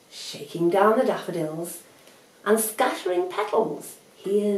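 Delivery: lively, expressive storybook reading; story narration. A narrator's reading. Narrator reads Aesop's fable to young listeners, lively storytelling. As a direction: read it to children with lilting emphasis.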